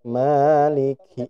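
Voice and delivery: "Maliki" slow with a puff of air on the kaf; breathy kaf that moves tissue; aspirated kaf. Shown as a demonstration. Teacher shows the correct kaf with a tissue test.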